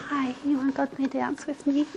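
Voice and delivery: very soft, timid-sounding mumbled invitation; too little energy. Acted. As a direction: barely put any energy into asking. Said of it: "That's not enough energy".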